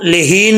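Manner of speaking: लेहीन with le and ordinary h; mistaken reading. Retold or imitated. Teacher shows what not to read, mistaken pronunciation. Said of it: "नहीं पढ़ना".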